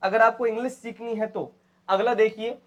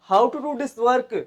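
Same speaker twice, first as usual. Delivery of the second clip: How to do this work said very slowly and deliberately; slow model sentence; 4 semitones higher, much slower than usual. Shown as a demonstration. Teacher models the new sentence slowly for students. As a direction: spell it out word by word. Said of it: "slow demo".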